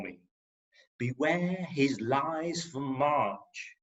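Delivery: mock-Shakespearean declaiming, some lines slowed; poem recital. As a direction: recite it like a ham Hamlet parody. Performing a Shakespeare-parody poem.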